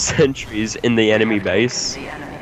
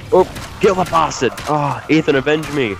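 hammed-up dying hero cry; overacted death scene; 5 semitones higher than usual. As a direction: ham it up like a dying soldier. Dying in game, calls teammate.

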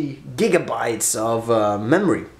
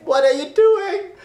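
high laughing question; 13 semitones higher than usual. Real, not acted. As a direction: laugh through it. Laughing at crowd.

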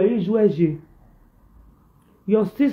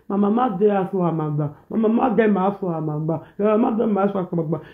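mocking imitation; faster than usual. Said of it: "But you come live video say".

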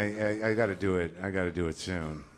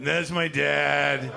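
put-on kid voice; 6 semitones higher, 8 dB louder, much slower than usual. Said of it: "Kid's like".

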